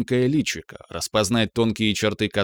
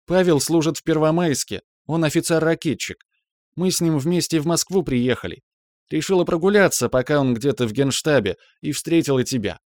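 put-on high, chatty young woman proud of her husband; bubbly young wife; 6 semitones higher than usual. Young wife tells her old doctor about her officer husband, bubbly. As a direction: rattle it off high and pleased. Voices Natasha telling news.

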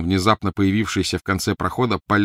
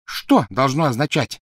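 higher, louder furious demand; open fury; 7 semitones higher, 4 dB louder than usual. Acted. Crabbe turns on Malfoy, throwing his words back furiously. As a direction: pounce on the words in rage. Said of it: "с откровенной яростью".

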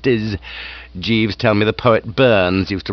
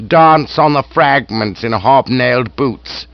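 through clenched teeth; 5 dB louder, slower than usual. Acted. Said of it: "He spoke from between clenched teeth".

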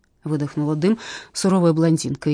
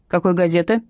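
stern question; 4 dB louder than usual. Acted. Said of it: "строго спросила Матросова".

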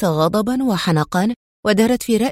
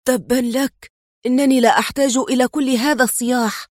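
angry shout; 4 semitones higher than usual. Acted. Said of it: "وصاح بغضب".

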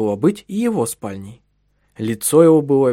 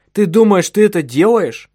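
sudden loud outburst, pitched up; the husband snaps back at his wife, loud and raised; blurted out; 8 semitones higher, 7 dB louder than usual. Acted. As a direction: let it burst out of the husband before he can stop it. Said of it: "Вырвалось у него".

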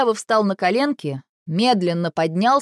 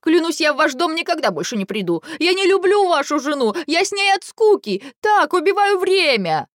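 puppy-like whining; 8 semitones higher than usual. A narrator's reading. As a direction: whimper like a beaten puppy. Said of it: "жалобно пощенячьи заскулил".

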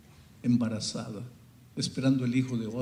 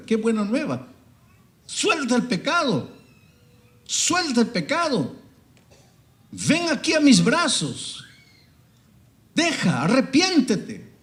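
high, loud, slow pleading sermon cry; preaching at full force; 11 semitones higher, 8 dB louder than usual. Acted. Preacher calling the congregation to repentance, loud high fervent cry. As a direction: call the sinner home at the top of your voice.

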